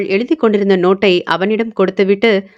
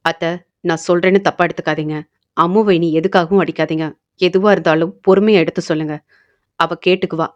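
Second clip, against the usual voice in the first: calm, low, firm request; calm but firm; 3 semitones lower, faster than usual. Acted. Karthi calmly but firmly asking aunt never to hit Ammu. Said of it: "என அமைதியாக அவன் கூறினாலும்".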